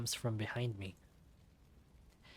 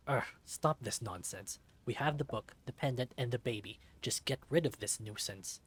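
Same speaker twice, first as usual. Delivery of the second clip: cold commanding. Acted. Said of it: "with his cold and commanding voice".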